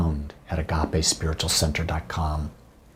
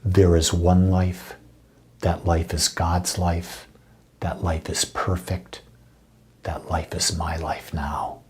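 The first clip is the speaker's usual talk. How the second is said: heartfelt affirmation. Shown as a demonstration. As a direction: lead others through it gently, phrase by phrase. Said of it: "say it with feeling".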